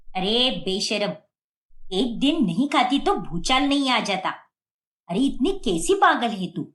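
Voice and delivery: scolding daughter-in-law in anger; angry scolding. Acted. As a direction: tell her off, fuming. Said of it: "Vasundhara गुस्से में अब आग बबूला हो जाती है".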